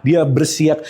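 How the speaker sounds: ordinary delivery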